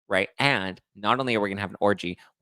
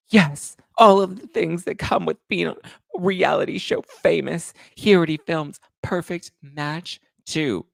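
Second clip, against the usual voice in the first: higher, a touch slower, smug put-on voice; mocking Nala; 8 semitones higher, 4 dB louder than usual. Host mocks Nala's answer to fans, smug higher voice. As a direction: lightly ham up her smug answer. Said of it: "Nala's like".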